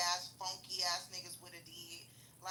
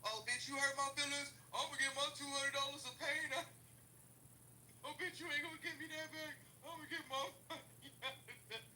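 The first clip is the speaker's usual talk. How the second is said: mock ghetto persona; 5 semitones higher than usual. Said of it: "I'm one of them type of ghetto ass".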